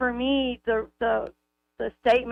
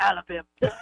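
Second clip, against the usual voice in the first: put-on commercial announcer voice, lower pitched; 4 semitones lower than usual. Recalling a moving company ad and imitating its line: imitating Jeff Goldman's ad voice. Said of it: "that commercial plays and I literally go".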